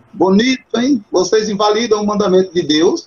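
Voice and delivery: mock praise that really scolds; ironic rebuke. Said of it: "É como se Cristo estivesse dizendo assim". (repreensão irônica, um pouco mais aguda)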